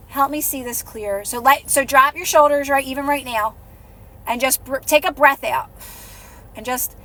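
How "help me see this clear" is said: meditative. Shown as a demonstration. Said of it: "It's, like, meditative almost".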